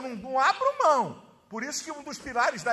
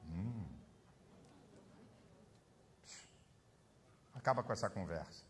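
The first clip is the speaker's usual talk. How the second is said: much lower, softer, curt stern father; stern old father; 19 dB quieter than usual. Retold or imitated. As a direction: cut the argument dead like the old man. Father silencing the quarrelling sons.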